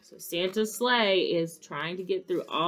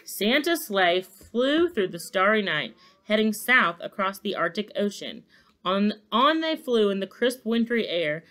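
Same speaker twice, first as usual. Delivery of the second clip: animated storybook reading; story narration; 2 semitones higher, 4 dB louder than usual. A narrator's reading. Narrator follows the sleigh's night flight, story narration. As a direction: read it aloud with measured drama.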